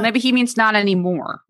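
whisper. Acted. Joking aside about Boba.

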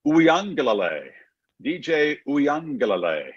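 Uiagalelei said slowly, oo-ee-ah-nga-leh-lay; careful pronunciation. Shown as a demonstration. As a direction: sound out Uiagalelei slowly, syllable by syllable. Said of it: "how do you pronounce D J's last name?".

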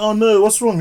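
high, sweet mock-innocent clown voice; mock creepy clown. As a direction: lure the kid in with a fake caring tone. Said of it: "He's like".

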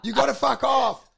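loud, high laughing rant; laughing yell. Retold or imitated. Comedian yelling at the old cameraman, laughing. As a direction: yell it while cracking up. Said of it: "I'm going".

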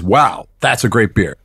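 generic American accent. Shown as a demonstration. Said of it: "just a generic American accent".

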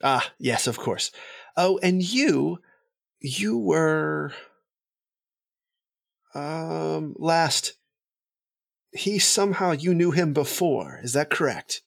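gracious noble, pitched well above his own voice; a courtly elf, light and high. Acted.

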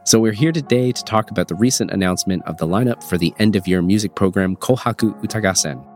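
congested, stuffy voice from a cold; nasal voice. Real, not acted. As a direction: talk through a blocked nose. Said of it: "apologies for my nasally voice".

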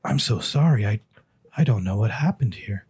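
a lightly voiced flustered dwarf; dwarf barkeep. Barkeep apologising for the dirty glass, flustered. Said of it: "puts them both down and goes".

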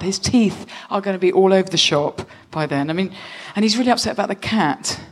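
nervous husband unloading his worries to his wife, lightly voiced. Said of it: "make my voice a little bit lower".

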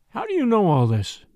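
sharp demand. A narrator's reading. Husband challenging the dancer's gossip, demanding. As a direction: demand to know, indignant.

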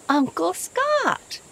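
high, loud and slow surprised call; startled boy crying out his uncle's name; cried out. A narrator's reading. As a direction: call out to him in astonishment. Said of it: "Mark cried".

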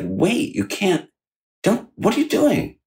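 panicked, imitating himself stopping her; alarmed protest. Patient stopping nurse pulling his tube, alarmed.

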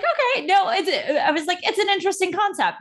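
laughing through the words, pitch up high. Real, not acted. Co-host laughing while retelling her reaction to advice. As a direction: giggle out the reply.

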